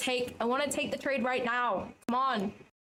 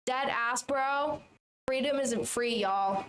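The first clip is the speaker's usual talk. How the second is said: lightly put-on American accent; slower than usual. Shown as a demonstration. Streamer trying out American phrases for viewers, put-on American accent. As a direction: play at American slang and slogans in an American accent. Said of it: "American accent, what should I say?".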